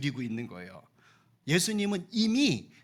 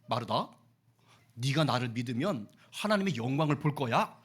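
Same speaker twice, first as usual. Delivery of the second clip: lightly lower Jesus; 5 semitones lower than usual. Acted. Jesus voiced to Martha.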